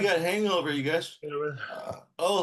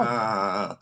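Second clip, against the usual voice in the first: sore tongue; 5 semitones lower than usual. Real, not acted. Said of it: "oh, my tongue hurts".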